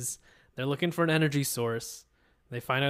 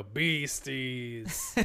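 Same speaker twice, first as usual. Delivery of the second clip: put-on Canadian accent. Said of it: "you think they go".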